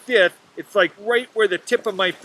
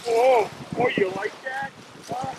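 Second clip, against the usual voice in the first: campy tease; 8 semitones higher than usual. Pretend. Teasing an imagined camera audience.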